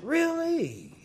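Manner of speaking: high sarcastic really; mock surprise. To the cleaning lady, mock amazed. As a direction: feign amazement, pitch jumping up.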